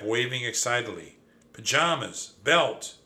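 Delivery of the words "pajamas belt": crying out. A narrator's reading. Cousin waving over a find in the trunk, crying out. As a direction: separate exclamations, climbing louder and higher. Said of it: "he cried".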